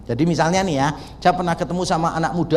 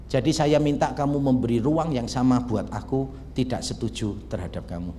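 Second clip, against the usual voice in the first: soft-spoken peacemaker; gentle, non-argumentative; 4 semitones lower, 5 dB quieter than usual. Retold or imitated. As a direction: reassure him without pushing. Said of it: "Less argumentatif gitu loh".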